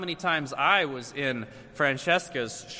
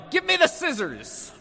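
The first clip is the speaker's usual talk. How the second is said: high-pitched demanding kid, mock yell; imitated child's yell; 11 semitones higher than usual. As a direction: pipe up high like a bossy little boy. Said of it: "come up to me and yell".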